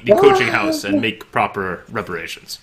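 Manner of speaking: high, pompous churchman; lofty priest voice. Acted. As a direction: speak like a self-important cleric.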